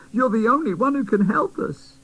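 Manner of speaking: high, pleading fairy; fairy begging the boy doll to go, high. Acted. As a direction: beg him not to back out. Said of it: "begged Griselda".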